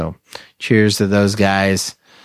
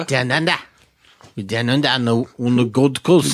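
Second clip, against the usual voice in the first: light mock Australian accent, half-joking. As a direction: toss it off in a loose Aussie twang. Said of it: "always doing this Australian accent".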